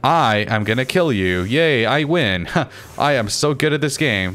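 mock-triumphant imitation of a petty rival; mocking opponents. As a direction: crow sarcastically, drawing out the little cheer. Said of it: "Just be like".

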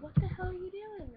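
high, loud startled yell; loud alarmed call from a friend. Retold or imitated. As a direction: shout it up high like the friend across the yard. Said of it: "She's like".

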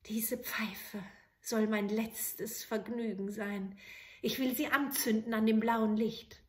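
a last small comfort; resigned soldier. Acted. Soldier alone in the well lighting his pipe, resigned.

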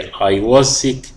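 very slow, clear phrase; teacher dictating; slow model reading. Shown as a demonstration. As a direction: read it slowly for the class. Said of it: "بس هنا معناها يتقيأ".

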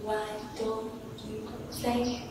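slow sung count along the music. Shown as a demonstration. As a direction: sing the beats out slowly. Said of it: "Chậm nhá".

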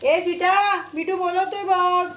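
high call across the yard. Real, not acted. Mother calls dog Sweety from across the yard, high call.

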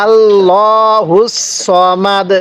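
আল্লাহুস সমাদ drawn out slowly; slow recitation. Shown as a demonstration. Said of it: "আরেকবার".

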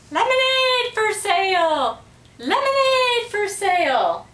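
high, loud squawking parrot call. A narrator's reading. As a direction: squawk it out like a parrot selling lemonade.

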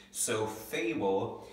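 fable said slowly, split into its two syllables. Shown as a demonstration. Teacher sounding out fable slowly for students. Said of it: "we would clap it out".

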